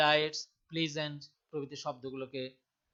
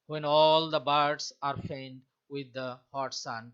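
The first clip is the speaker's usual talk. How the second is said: "When ALL the BIRDS are FAINT with THE hot SUN", measured and louder on the beats; iambic stress; 6 dB louder, much slower than usual. Shown as a demonstration. Teacher demonstrating iambic pentameter, "When all the birds are faint with the hot sun" in unstressed-stressed beats. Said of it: "এর প্রথম সিলেবেলটা হবে আনস্ট্রেসড".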